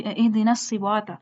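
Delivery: "الصراط" as siwata, w for r; wrong recitation. Shown as a demonstration. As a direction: slip a w into "الصراط". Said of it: "یہ بھی غلط ہے". ("الصراط" را کی جگہ وا)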